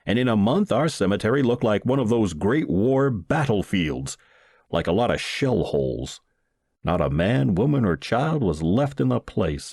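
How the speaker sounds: ordinary delivery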